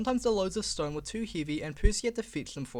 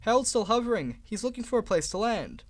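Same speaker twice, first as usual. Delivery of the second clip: excited; 5 semitones higher, 4 dB louder than usual. Acted. Fireman excited.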